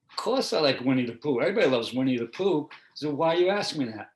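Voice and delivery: loud, emphatic comeback; indignant kid retort. Retold or imitated. Kid turning round on his teacher, indignant retort. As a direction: imitate a kid loudly protesting the obvious. Acts out the kid's baffled retort.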